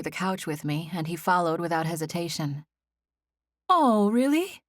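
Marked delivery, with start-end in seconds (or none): 3.7-4.6 high, loud "really?"; worried little gasp of a question; concerned surprise. A narrator's reading. Sister concerned.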